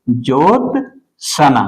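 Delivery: ज्योत्सना said slowly, every syllable clear; teacher voicing the correct word ज्योत्सना slowly; careful spelling-out. Shown as a demonstration. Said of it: "ज्योत्सना जो सही शब्दावली होगा".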